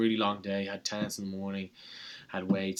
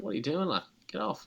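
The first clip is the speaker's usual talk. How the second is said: mock indignant; 7 semitones higher than usual. Imagining Irish reaction to shooter.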